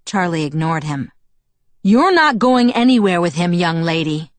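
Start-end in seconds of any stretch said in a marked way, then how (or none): 1.8-4.3 yelling. A narrator's reading. Furious father forbids his daughter to go, yelling. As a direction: lay down the law at a yell. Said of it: "he yelled".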